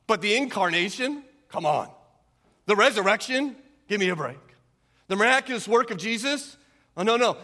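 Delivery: imitating a scoffer's incredulous questions and dismissals; mocking skeptic. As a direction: pitch up each doubt, then brush it off. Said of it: "They laugh at it because it's ridiculous".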